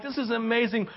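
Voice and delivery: high-pitched retold wonder; excited amazement. Preacher reliving people set free, excited. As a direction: marvel at it, pitch lifted. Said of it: "I'm excited".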